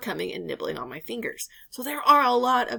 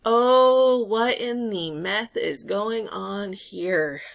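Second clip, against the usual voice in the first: stunned disbelief; 5 dB louder, much slower than usual. Retold or imitated. Retold own baffled reaction.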